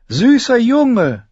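high, slow pleading cry; calling out. A narrator's reading. Chained prisoner begging the child, drawn-out call. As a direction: call coaxingly at full voice. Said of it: "rief Jaqen Hagar".

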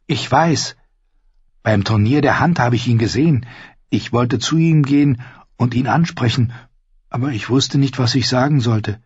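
lightly voiced shy squire; young squire Ned. Ned tells Arya about seeing her father, lightly voiced, earnest.

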